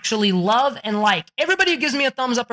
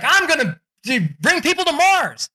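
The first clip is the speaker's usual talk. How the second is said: Elon Musk; 8 semitones higher than usual. Retold or imitated. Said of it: "He's like".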